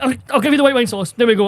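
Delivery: exasperated retold surrender; retold raging. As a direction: act out fury held under service talk. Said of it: "I was fucking raging".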